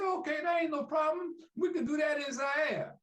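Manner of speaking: imitating Ali's easy bravado; Ali booming. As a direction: boom it out like the champ.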